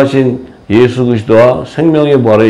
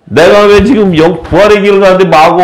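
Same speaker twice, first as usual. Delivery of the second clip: an imagined angry Jesus yelling at the mourners, mock; 6 semitones higher, 3 dB louder than usual. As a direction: pretend to snap at the crowd. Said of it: "좀 화가 있으신 분이었으면".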